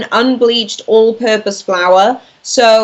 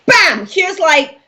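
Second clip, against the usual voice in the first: lightly imitated showman, higher pitch with drawn-out words; playful mock announcement, pitched up; Bill Shakespeare; 6 semitones higher, slower than usual. Guest imagines Shakespeare dumping new words on everyone, playful mock announcement. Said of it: "Bill Shakespeare shows up and he's just like".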